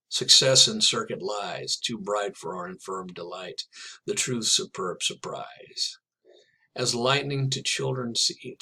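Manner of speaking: slow, measured recitation of a poem; poem reading. Acted. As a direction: read it like verse, savouring each line. Reads the Dickinson poem aloud.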